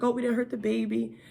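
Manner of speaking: high, lightly voiced apologetic social worker; imitating social worker. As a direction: pitch her apology way up. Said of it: "She's like".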